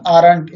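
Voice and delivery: aren't said as one syllable, AHRNT; aren't modelled for students; pronounce aren't. Shown as a demonstration. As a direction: fold are and not into aren't. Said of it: "इसका उच्चारण हो गया".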